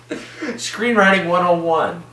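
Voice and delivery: laughing through a mock lecture, high and slow. Real, not acted. Reviewer laughing at a bad joke, slow and amused. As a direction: chuckle the words out, slowly.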